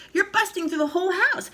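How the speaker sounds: high loud protest; plead, upset; alarmed boy. A narrator's reading. George protesting.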